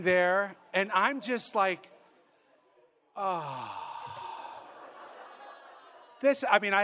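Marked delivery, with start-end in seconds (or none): 3.2-3.8 low, soft, drawn-out "oh"; contented sigh. Retold or imitated. Priest relaxing in massage chair, contented sigh. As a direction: sink into a relieved sigh.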